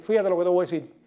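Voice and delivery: quiet, deliberate show of household authority; husband laying down the law. Acted. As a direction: square up and announce it gravely. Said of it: "dígale así de frente a ella".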